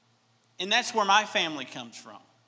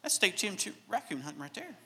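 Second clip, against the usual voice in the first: playful Southern American drawl, slightly higher; 3 semitones higher, 5 dB quieter than usual. Pretend. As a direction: lay on a Southern drawl, like telling a tall tale. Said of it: "my southern drawl is gonna come in".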